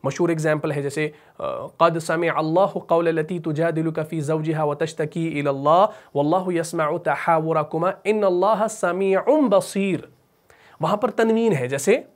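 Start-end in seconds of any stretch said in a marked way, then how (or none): 1.8-10.1 measured, flowing chant of a verse; Quran recitation. Shown as a demonstration. Teacher recites a well-known example, measured chant. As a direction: recite evenly, drawing out the closing words.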